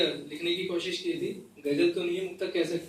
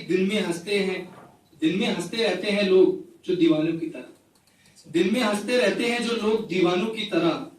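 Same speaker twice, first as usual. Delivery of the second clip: measured, repeating recital of a poem; poetry recital; 3 dB louder than usual. Acted. Poet reciting a rain poem to the gathering, measured recital. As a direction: recite each line twice, savouring it.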